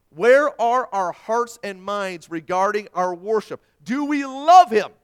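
loud, high, forceful proclamation; full-force preaching. Real, not acted. Preacher challenging a congregation about their hearts, full-force preaching. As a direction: thunder the verse out to the room.

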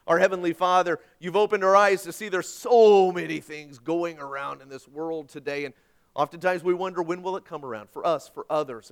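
steady earnest prayer voice, fading at the end; closing prayer. Acted. Pastor praying over the congregation, earnest prayer voice. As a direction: lead the church in prayer.

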